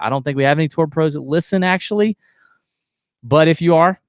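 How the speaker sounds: podcast ad read with a playful hype middle. Acted. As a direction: sell the shaft like a host read. Reads sponsor ad.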